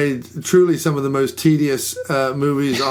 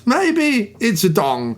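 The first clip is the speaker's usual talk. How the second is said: near Walken impression; 4 semitones higher, much slower than usual. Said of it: "almost became a Christopher Walken impression".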